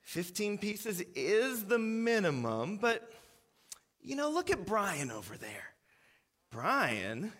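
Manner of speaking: slow, weary, patronizing explanation; exasperated manager. Retold or imitated. Manager to waitress, slow and exasperated. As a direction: sigh it out like a tired boss. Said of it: "he looks exasperated".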